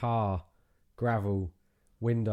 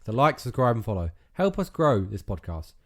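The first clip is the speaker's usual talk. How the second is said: reading the closing script aloud; podcast outro read. Acted. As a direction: read the sign-off like an announcer.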